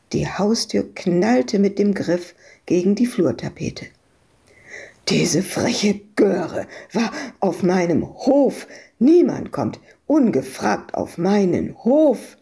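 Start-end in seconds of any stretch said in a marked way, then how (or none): 5.1-12.4 panting. Acted. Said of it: "keuchte Freak".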